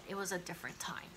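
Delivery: quick breathy whisper aside. Real, not acted. Dismissive aside.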